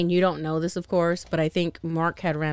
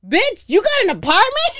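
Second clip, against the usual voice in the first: higher, louder, mocking disbelief; incredulous Layla; 13 semitones higher, 6 dB louder than usual. Quoting Layla mocking Steven's flat, loud sassy disbelief. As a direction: toss it off as a sassy unbeliever. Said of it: "And she's like".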